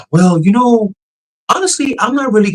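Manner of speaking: high, hesitant chatbot voice imitating a person musing; humanlike AI voice. Mocking the AI chatbot to a friend, hesitant high voice. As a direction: mimic an AI pretending to think it over. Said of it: "the pitch, tone".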